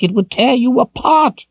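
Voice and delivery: put-on high, grave voice of an old wizard; old wizard warning. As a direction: warn her gravely, in character. Figure's warning voice.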